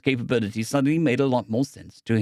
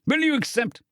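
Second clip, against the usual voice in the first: eager question; 13 semitones higher than usual. Acted.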